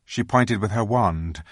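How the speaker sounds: usual speaking voice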